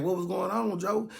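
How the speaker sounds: high mock concern. Narrator mock-concerned, voice raised.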